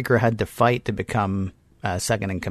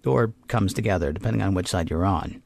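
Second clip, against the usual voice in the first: measured storyteller's read with deliberate pauses; recap narration. A narrator's reading. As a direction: narrate the plot in scripted, dramatic beats. Reads a scripted episode recap.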